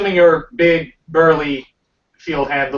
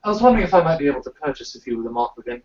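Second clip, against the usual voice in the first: put-on British accent. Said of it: "Can I do British accent now".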